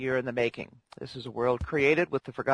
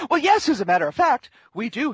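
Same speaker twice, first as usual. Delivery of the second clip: dragon voice; 9 semitones higher, 6 dB louder than usual. Acted. Dragon voice, answering the news request.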